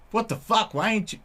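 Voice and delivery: pitched well up, mock-indignant. Retelling the cat's complaint, high mock-indignant voice. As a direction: pitch it way up like a squeaky indignant cat. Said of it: "It was more like".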